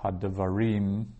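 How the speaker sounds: Hadavarim with RIM stressed; stress on final syllable. Shown as a demonstration. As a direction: lean on the last syllable of Hadavarim. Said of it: "which syllable you put the stress on".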